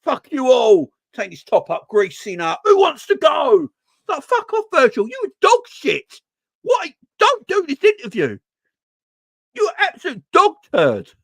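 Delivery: full-throated rage at the screen; furious shouting. Real, not acted. Streamer raging at the captain's interview, furious yelling.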